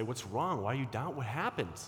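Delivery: imitating a worried friend's disbelief. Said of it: "You might say".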